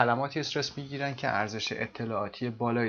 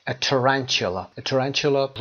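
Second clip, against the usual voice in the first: A tarantula spoken slowly, every syllable clear; slow careful model; 6 dB louder, much slower than usual. Shown as a demonstration. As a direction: say A tarantula slowly so students can copy it. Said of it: "اینو یه دور بگیم". (آهسته و شمرده برای تکرار)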